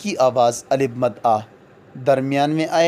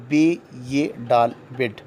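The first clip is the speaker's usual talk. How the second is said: spelled out slowly; slower than usual. Shown as a demonstration. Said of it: "یہ کی آتی ہیں".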